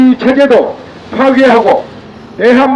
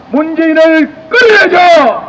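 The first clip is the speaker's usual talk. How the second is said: raised, higher rally call; roaring rallying speech; 4 semitones higher than usual. Real, not acted. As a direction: call out to rouse the crowd. Rally chant against government.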